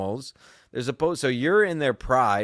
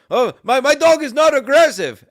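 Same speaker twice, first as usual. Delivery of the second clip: high, loud mocking voice; protesting dog owner; 12 semitones higher, 9 dB louder than usual. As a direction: mimic an indignant owner in a raised pitch. Mimics the other dog owner.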